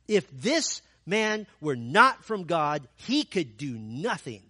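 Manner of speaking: loud, forceful preaching retort; bold first sermon. Acted. Healed blind man lecturing the Pharisees, a loud forceful retort. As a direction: preach it back at them boldly. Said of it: "his first sermon was a doozy".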